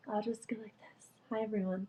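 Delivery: soft breathy whisper, leaning down. Real, not acted. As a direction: hush it to a whisper. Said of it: "I feel like I have to whisper".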